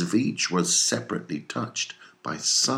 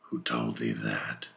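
cry; 7 semitones lower, 7 dB quieter than usual. Acted. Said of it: "cried Ahab".

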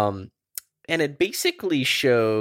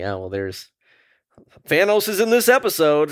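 mock shock; 6 semitones higher, 5 dB louder than usual.

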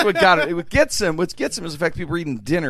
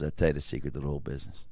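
low, soft, fast confiding MC; booming voice; 13 semitones lower, 10 dB quieter, faster than usual. Retold or imitated. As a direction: drop low and share a secret. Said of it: "He goes".

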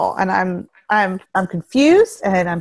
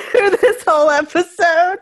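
high wheezy laughing talk; wheezing laugh; 5 semitones higher than usual. Real, not acted. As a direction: wheeze through the words. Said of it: "I'm gonna wheeze".

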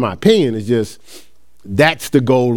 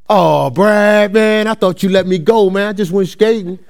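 pleading player; 5 semitones higher than usual. Retold or imitated. Best player pleading with coach, imitated high complaint. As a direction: imitate a protesting teenage athlete begging.

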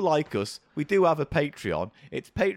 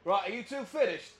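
character voice; 5 semitones higher, 6 dB quieter than usual. Acted. Shopkeeper character voice takes over.

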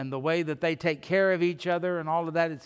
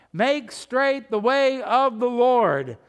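slow, loud, raised proclamation; crying out; 5 semitones higher, 5 dB louder, slower than usual. Acted. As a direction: proclaim it like a prophet in the wilderness. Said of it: "And what is he crying?".

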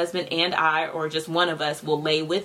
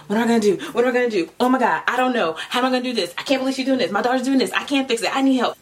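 panicked mom; 6 semitones higher, much faster than usual. Retold or imitated. Stressed mom spiraling over her daughter, mock panic. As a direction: play the overwhelmed parent losing it. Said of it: "I just don't wanna be constantly like".

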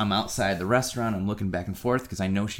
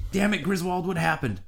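high-pitched exasperated self-scolding; mock exasperation; 9 semitones higher than usual. At home after the failed date, mock exasperation. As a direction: scold yourself in a raised, hammed-up voice.

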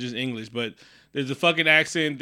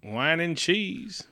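higher, slow come-on; mock French seductress; 4 semitones higher, much slower than usual.

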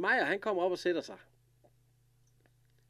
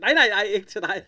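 higher and louder, hammed-up scolding; mock insistent no; 7 semitones higher, 12 dB louder than usual. Retelling Emma refusing Olsen the cognac, loud mock scolding. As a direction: wag a finger with the voice.

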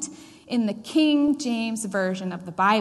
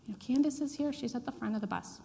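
softly mimicked call from afar, higher pitched; imitated distant call; 4 semitones higher, 6 dB quieter than usual. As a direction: call back reassurance in a small, raised voice. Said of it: "a voice calls out".

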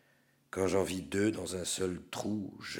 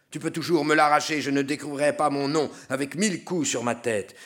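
higher, louder, fast defiance; fast defiant shout, louder; 7 semitones higher, 7 dB louder, faster than usual. Acted. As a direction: spit it back at the tormentor. Defiant sinner under assault.

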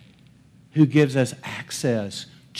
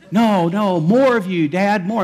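higher-pitched, mildly pleading insistence; insistent kid; 5 semitones higher than usual. Acted. Kids asking dad for more of him, insistent pleading. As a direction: press Dad like a child wanting more.

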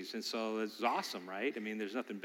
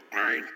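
put-on baby straining grunt; 4 semitones lower, 5 dB louder than usual. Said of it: "you would hear them go".

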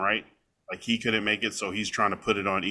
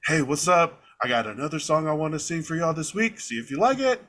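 upbeat singer greeting; 6 semitones higher than usual. Retold or imitated. Voicing the singer's friendly video intro.

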